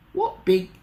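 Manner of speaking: put-on slow wondering girl, not whispered; timid Little Red. Little Red seeing Granny's teeth, slow timid wonder. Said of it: "Little Red whispered".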